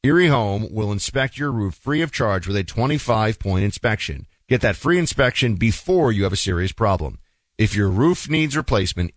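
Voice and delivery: steady sponsor read, clear and even. Acted. Host to radio listeners, a steady sponsor ad read. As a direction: sell the free roof inspection.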